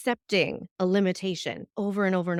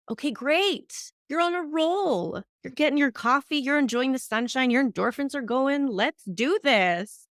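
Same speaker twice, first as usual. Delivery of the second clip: pep talk; 4 semitones higher than usual. Acted. Self-coaching pep talk.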